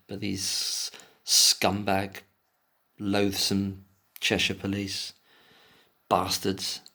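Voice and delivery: slow, bitter, spat-out insult; slow seething contempt. Real, not acted. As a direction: drag out each insult with disgust.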